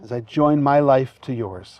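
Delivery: officiant feeding vows phrase by phrase; short phrases with pauses. Shown as a demonstration. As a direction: say each phrase, then pause for the repeat. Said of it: "repeat after me phrase by phrase".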